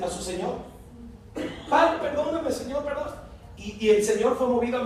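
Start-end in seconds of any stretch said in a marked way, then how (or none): 1.7-3.1 high, urgent begging; pleading. Acted. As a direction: cry out for pardon. Sinner begging forgiveness.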